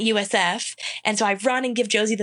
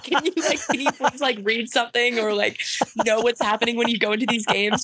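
pleading teammates; 2 semitones higher than usual. Retold or imitated. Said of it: "they're like".

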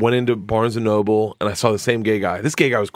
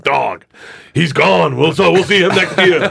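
imitating Joey; 6 semitones higher, 4 dB louder, slower than usual. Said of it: "He was like".

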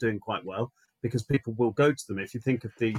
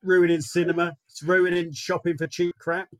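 lightly voiced moaner, pitched up; mock grumbler; 4 semitones higher than usual. Moaning to podcast friends about the cost of living, mock grumbling. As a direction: grumble in a put-on common voice.

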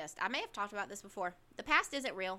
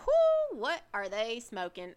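mock disbelief; 7 dB louder, slower than usual. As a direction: playfully scoff at something absurd. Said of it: "I was like".

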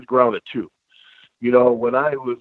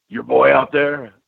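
put-on slow, drawn-out Texas accent, lightly done; a light southern Texas accent, like a friendly wrestler; 3 semitones higher, slower than usual. Scene: Stone Cold asking Joe about his son, in a light Texas accent. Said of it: "in that southern, uh, Texas accent".

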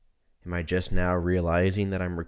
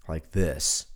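stuffy congested voice; 4 semitones lower than usual. Real, not acted. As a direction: talk with a congested nose. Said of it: "sound a little congested".

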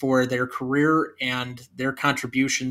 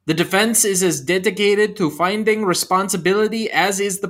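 put-on terrible German accent; 4 semitones higher than usual. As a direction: read the courtroom speech in a clumsy fake German accent. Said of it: "That was a terrible accent".

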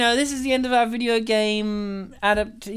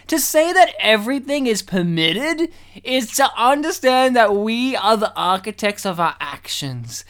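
put-on orate it like an old stage actor; Shakespearean actor; 3 semitones higher, 3 dB louder than usual. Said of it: "read this like a Shakespearean actor".

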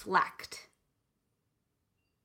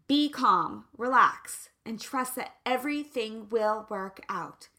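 mock patient calm; 4 dB louder than usual. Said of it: "with my neighbor next door".

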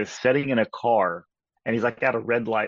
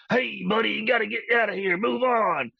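much higher, put-on redneck yelling from a car; redneck driver voice; 10 semitones higher than usual. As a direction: bark it like an annoyed hick driver. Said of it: "He's like".

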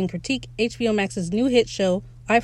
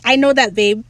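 sweet retort; 5 dB louder than usual. Retold or imitated. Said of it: "And he's like".

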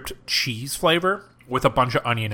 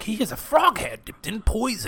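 bayou shack man voice; 8 semitones higher, 4 dB quieter than usual. Acted. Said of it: "he's like".

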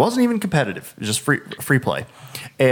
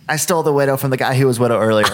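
put-on gloating kid; faster than usual. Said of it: "he's like".

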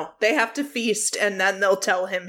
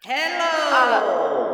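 put-on young person faking old. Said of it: "He can do a pretty good old man impression".

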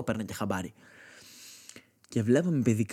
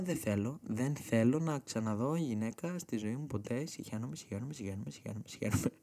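mock disgusted kid; 6 dB quieter than usual. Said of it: "ήμουνα".

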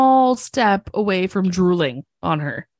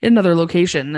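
mock flustered Hodgins; 2 semitones lower than usual. Friend mocks flustered Hodgins escaping the bomb tech, stammering. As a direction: play him fumbling for an excuse to flee. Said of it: "Hodgins gets so flustered and is like".

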